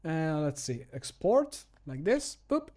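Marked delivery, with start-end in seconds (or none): none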